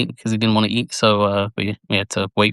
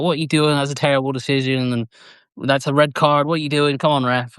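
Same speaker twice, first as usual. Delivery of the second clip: dad yelling at ref; 4 semitones higher than usual. Retold or imitated. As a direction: imitate a dad ranting at the TV, half-hearted. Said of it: "he would always get angry and yell and shout at the referee".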